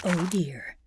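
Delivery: usual speaking voice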